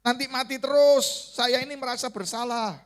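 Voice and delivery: retold sulk. Preacher re-enacts sulking at God over patients dying, mock-aggrieved. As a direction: complain like someone sulking, pitch climbing late. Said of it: "Langsung saya ngambek".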